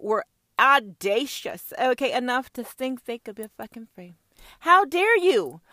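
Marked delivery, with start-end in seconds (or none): 4.6-5.6 high, slow, outraged; mock royal outrage. The British crown outraged at the rebels, slow and shrill. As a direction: ham up the offended crown.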